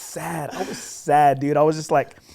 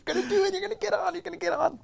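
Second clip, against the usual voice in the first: much higher, excited cheering from a stranger; pumped up cheering; 6 dB quieter, faster than usual. Retold or imitated. A fellow golfer cheering him on, imitated excited. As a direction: hype him up like a fan. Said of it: "he's pumped up, and he's shaking me".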